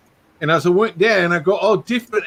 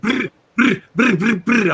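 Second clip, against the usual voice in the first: fast rolled brr noises, higher; imitated rapid Spanish babble; 5 semitones higher, slower than usual. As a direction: rattle off brr brr like unintelligible fast talk. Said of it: "he just talked like".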